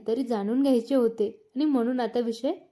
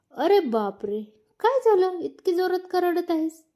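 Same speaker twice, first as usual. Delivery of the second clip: alarmed; 6 semitones higher than usual. Acted. Husband alarmed by her crying.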